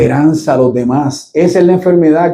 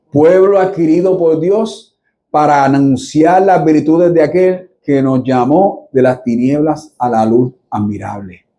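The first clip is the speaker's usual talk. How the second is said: scripture reading. Acted. Pastor reading First Peter to the church, measured scripture reading.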